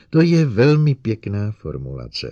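loud cutting retort; snapped. Acted. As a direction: snap it back. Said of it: "odsekla doktorka Kelvinová".

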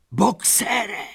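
very high cry; desperate cry. A narrator's reading. Lupina crying out to Boxer, desperate high cry. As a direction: call out in despair. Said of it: "křičela zoufale Lupina".

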